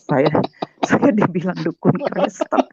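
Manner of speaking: high laugh running into the words; real laughing. Real, not acted. Storyteller amused at the label she was given, laughing. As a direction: talk through real amusement.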